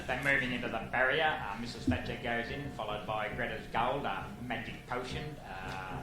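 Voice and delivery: a mild race-caller voice, calm before the jump. Retold or imitated. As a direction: paint the gates loading like a track caller. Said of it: "all race callers have to talk like that".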